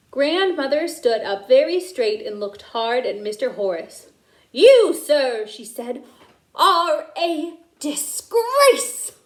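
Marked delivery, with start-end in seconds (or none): 4.5-9.1 slow, louder rebuke; stern scolding. A narrator's reading. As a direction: look hard and condemn. Grandmother scolds Horace.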